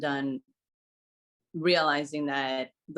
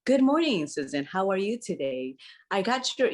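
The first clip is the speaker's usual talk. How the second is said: cheerful greeting; 3 semitones higher than usual. Retold or imitated. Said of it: "the person that likes to be like".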